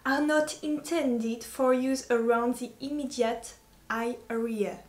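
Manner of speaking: slow, careful English accent with French traces; French speaker's effortful English accent; attempted English accent. Shown as a demonstration. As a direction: read the small print in an English accent. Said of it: "le faire avec un accent anglais".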